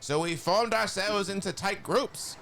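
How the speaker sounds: a hint of cartoon Skeletor telling a grim war story. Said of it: "I can probably read this in my Skeletor voice".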